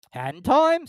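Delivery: high, loud gruff creature; gruff Gryphon. Acted. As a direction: bluster like a rough beast.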